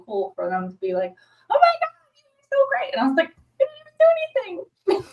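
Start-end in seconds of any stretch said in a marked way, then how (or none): 1.5-2.9 gushing praise. Retold or imitated. Retelling praise from the cast. 3.3-5.0 flustered disbelief. Retold or imitated. Retelling her flustered reply.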